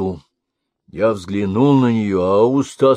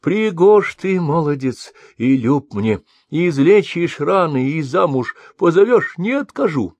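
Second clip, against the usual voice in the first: higher, glad maiden's voice; joyful; 7 semitones higher than usual. A narrator's reading. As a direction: speak with shy delight. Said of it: "молвила с радостью".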